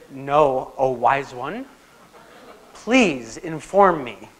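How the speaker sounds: slow, sarcastic humility; mock deference. Lecturer retells his sarcastic, slow reply to the know-it-all student. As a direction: drawl it out with sarcastic mock respect.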